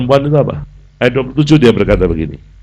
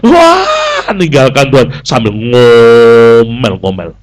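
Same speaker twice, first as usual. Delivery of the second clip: mock grumbling shout; 4 dB louder, slower than usual. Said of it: "leaving God grumbling".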